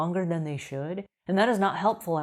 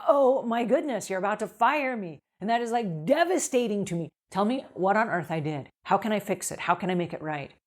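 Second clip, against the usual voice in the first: confident; 2 semitones higher than usual. Shown as a demonstration. Cleaner confidently asking why she's being fired. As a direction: stand tall and ask straight out. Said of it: "stand up straight... come off really confident".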